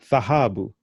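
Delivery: thahabu with th at the front and a strong HA; special th sound. Shown as a demonstration. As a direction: open thahabu on th, then lean on ha. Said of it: "those are special sounds".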